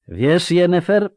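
high, slow, teasing lilt; grinning taunt. Acted. Sorcerer toying with the sorceress, grinning taunt. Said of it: "wyszczerzył się czarodziej".

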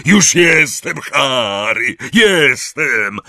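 high, loud reassuring shout; calling out. A narrator's reading. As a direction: shout that help has arrived. Hagrid calls while rescuing Harry.

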